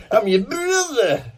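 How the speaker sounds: high, slow mock old lady; old woman voice. Actor joking the fan might claim to be his brother, high voice. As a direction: push the joke further in her squeaky voice.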